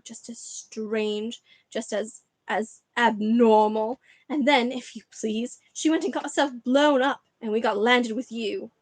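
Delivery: bitter, mocking rant, dragging out "strange" and "abnormal". Aunt Petunia keeps ranting at Harry about his parents, sneering. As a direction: sneer every word. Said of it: "went ranting on".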